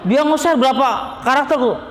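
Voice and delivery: mock outrage at the long chat message; mock exasperated shout. Menirukan penanya yang bercerita panjang. (teriakan kesal pura-pura)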